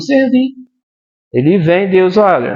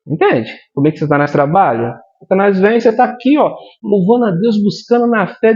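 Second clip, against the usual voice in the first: normal talking voice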